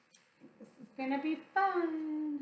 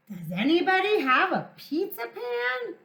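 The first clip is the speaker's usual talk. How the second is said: higher, louder call to the yard; 6 semitones higher, 4 dB louder than usual. Acted. Hen calling out the window for a pan, loud. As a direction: ask the whole yard loudly. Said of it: "she called out".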